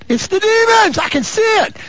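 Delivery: high, loud preacher's exclamation; demon-spotting cry. Acted. Preacher points out demons in his congregation, high outcry. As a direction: call it out in a high, sudden outcry.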